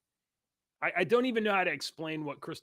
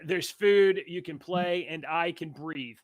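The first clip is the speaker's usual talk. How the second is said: relieved parent voice; 7 dB louder, slower than usual. Retold or imitated.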